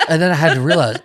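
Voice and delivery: words through laughter; laughing while talking. Real, not acted. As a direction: laugh as you tell it. Laughing while telling the reaction.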